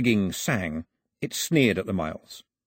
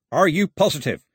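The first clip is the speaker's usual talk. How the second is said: loud, raised, sceptical question; suspicious; 7 semitones higher, 5 dB louder than usual. A narrator's reading. Voice behind the door doubting the gentleman, suspicious. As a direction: press them, still doubtful. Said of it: "a voice full of suspicion".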